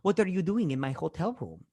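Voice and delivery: lightly imitated Hispanic accent; stereotypical Hispanic accent. Host imitates Terrence in his hotel, stereotypical Hispanic accent. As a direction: mimic the film character's overdone Hispanic accent. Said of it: "the Hispanic accent".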